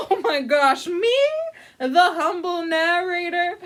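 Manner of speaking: laughing, delighted surprise; flattered giggle. Acted. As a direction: gush with mock modesty. Narrator flattered by invitation.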